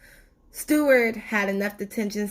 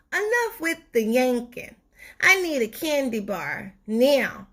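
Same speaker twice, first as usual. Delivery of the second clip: demanding tooth voice; 4 semitones higher than usual. Acted. The sweet tooth demands candy.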